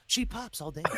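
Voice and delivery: breathy whisper of a slogan. Pretend. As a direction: whisper it like a secret catchphrase. Repeated slogan, whispered then quiet.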